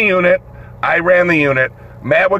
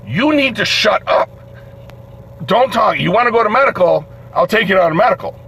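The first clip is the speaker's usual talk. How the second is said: stern order; 4 semitones higher than usual. Retold or imitated. Guard ordering inmate to be quiet.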